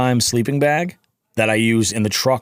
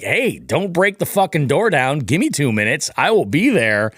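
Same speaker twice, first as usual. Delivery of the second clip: higher-pitched, exasperated mock yell; retold yelling; 5 semitones higher than usual. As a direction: call out indignantly through a door, without full volume. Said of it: "So I'm yelling at them".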